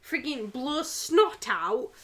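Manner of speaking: sending up her own disgust with a laugh; mock prissy scolding. Mocking her partner's disgust, laughing through it.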